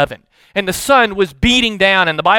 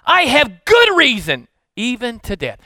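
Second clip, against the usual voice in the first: a touch of anger; 6 semitones higher, 4 dB louder than usual. Acted. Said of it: "But that's his response".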